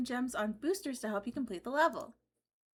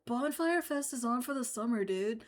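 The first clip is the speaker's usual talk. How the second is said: surfer dude voice. Acted. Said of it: "That is such a great bro voice".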